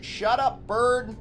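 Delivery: high, strained, frustrated insults; exasperated rant. Real, not acted. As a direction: whine it out, fed up. Insulting slow game character.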